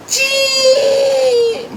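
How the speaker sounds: very high screeching "chee"; brake screech. Retold or imitated. (ऊँची चीं की ब्रेक की आवाज़)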